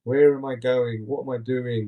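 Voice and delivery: mock slow delivery; very slow speech. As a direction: draw each word out, imitating her. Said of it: "she's speaking very slow to Leia".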